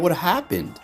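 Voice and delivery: high, baffled what happened; genuinely confused, pitch jumping up; surprised. Real, not acted. Streamer baffled as his legend backs out, surprised.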